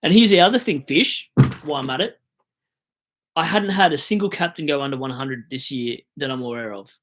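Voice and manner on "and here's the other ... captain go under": loud, high outburst; fired-up rant. Real, not acted. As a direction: blow up at the player. Ranting at the player.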